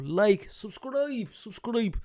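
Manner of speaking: singsong sign-off. Acted. Playful outro sign-off.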